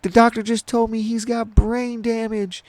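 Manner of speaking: high falsetto lament; re-enacted high-pitched wail; imitating upset mom. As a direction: imitate a distraught mother breaking the news. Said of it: "And she's all upset".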